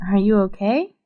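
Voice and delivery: ordinary talk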